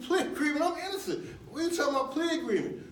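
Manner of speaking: retelling his own shocked outburst at the lawyer; shocked disbelief. Retold or imitated. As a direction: blurt it out stunned at the plea offer. His own shocked reply retold.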